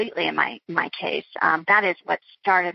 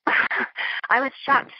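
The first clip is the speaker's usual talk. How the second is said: breathy laugh through the words, higher and slow; laughing in disbelief; 5 semitones higher, much slower than usual. Real, not acted. Guest laughing in disbelief at the social worker's threat, breathy and slow. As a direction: laugh off the memory of the shock. Laughing while recalling the shock.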